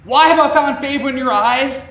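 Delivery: high, loud, overwhelmed cry of thanks; astonished grateful question; overwhelmed Ruth. Retold or imitated. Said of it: "Ruth is overwhelmed by Boaz's generosity".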